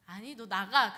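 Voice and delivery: harsh order. Retold or imitated. Amnon throws Tamar out.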